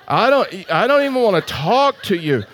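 chuckling while retelling his grumpy reply; laughing quote. Retold or imitated. Pastor laughing at his own rude reply to the stranger.

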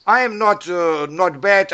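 slightly hoarse, getting over a cold. Real, not acted. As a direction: speak with a bit of a hoarse throat. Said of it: "I have a bit hoarse voice".

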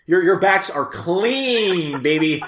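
slow, laughing, teasing drawl; mock exasperation. Talking back to the film's endless bath scene, laughing slowly. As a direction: tease the bathtub ladies, slow and amused. Mock addressing movie characters.

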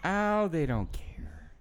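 soft unvoiced whisper. Real, not acted. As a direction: breathe it out as a whisper. Whispered aside.

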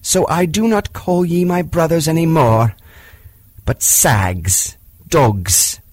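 put-on a young man-cub facing down the wolves; defiant boy Mowgli. Mowgli defies the wolf council.

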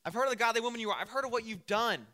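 loud, high, forthright greeting; straight-up, direct. Acted. Boaz walks straight up to Ruth, direct and loud. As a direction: come straight out with it, boldly. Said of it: "He straight up is like".

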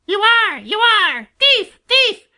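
very high-pitched screeching jay; piercing, furious character squawk; shrieking. A narrator's reading. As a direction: screech accusations like a furious bird. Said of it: "shrieked Sammy".

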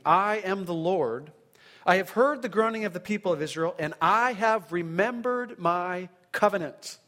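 solemn, proclaiming Bible reading; scripture reading. Acted. Preacher reading God's promise to Israel aloud, solemn and proclaiming. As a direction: read God's words with weight, building on I am the Lord. Reads Exodus six aloud.

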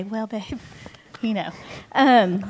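gently imitating a loving husband; lovingly. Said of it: "he'll just lovingly say".

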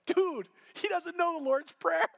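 high, slow, teasing aside from a teammate; lightly voiced smirking whisper to the chaplain; mocking teammate aside.

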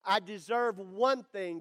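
usual speaking voice

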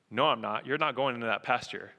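low, steady refusal; lightly voiced farmer, calmly stonewalling; unbothered farmer. Farmer answering the irate government man, low and unmoved.

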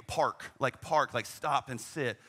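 slow for a foreigner. Retold or imitated. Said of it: "I say 'em slower".

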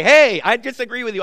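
a loud, retold heckler shout; mock heckle. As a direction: call out the objection like a heckler in the crowd. Heckler stands up mid-sermon.

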